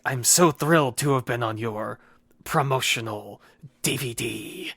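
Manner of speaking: lightly imitated villain razzing his target; mock-thrilled, with theatrical pauses; Heath Ledger Joker. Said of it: "a Heath Ledger Joker voice".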